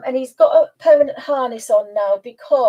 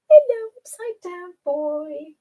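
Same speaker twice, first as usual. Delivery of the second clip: high, slow coo; cooing pet talk; 5 semitones higher, slower than usual. Real, not acted. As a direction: greet a pet in a drawn-out high singsong.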